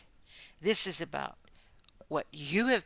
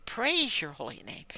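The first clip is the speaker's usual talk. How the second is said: breathy whispered thanks to God; whispered prayer; 2 semitones higher than usual. Real, not acted. Preacher thanking God in a hushed whisper. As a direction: whisper the praise under your breath.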